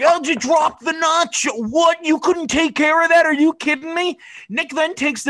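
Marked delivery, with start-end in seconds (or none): 0.0-4.2 high-pitched mock scolding of a friend; mock berating. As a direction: nag him like a scolding parent, hammed-up. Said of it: "He's like".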